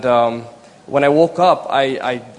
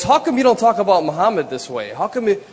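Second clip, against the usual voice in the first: higher-pitched mock yell at her husband; retold yelling; 6 semitones higher, faster than usual. Wife demanding why he never talks about Muhammad, mock angry. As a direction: imitate the wife snapping back, lightly. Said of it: "she got to the point where she's yelling at me".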